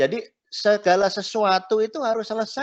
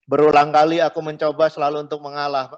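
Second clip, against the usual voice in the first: lirik diucapkan, tidak dinyanyikan; 2 semitones lower, 4 dB louder than usual. Shown as a demonstration. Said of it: "Saya nggak nyanyi, nggak nyanyi nadanya loh".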